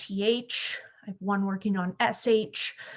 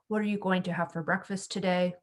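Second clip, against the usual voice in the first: no inflection at all, level all through; flat monotone question; 2 semitones lower, faster than usual. Shown as a demonstration. Speech therapist showing teachers a monotone question, flat and level. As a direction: say the question flat with no rise, like a statement. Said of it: "they have a very flat voice".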